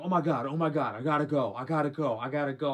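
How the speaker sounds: loud mock panic, words tumbling in repeats; retold freak-out. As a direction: act out her urgent freak-out. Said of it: "She starts freaking out".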